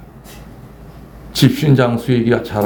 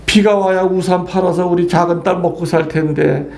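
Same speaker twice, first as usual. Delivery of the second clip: mother's lament; 5 semitones higher than usual. Retold or imitated. Priest playing the fretting mother in the story, in a high mock wail. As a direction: wail like a mother fretting over her daughter.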